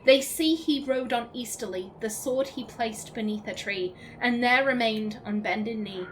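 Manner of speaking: measured, solemn poem recital; steady verse reading. Acted. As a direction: read it like a ballad. Poem reading, fading end.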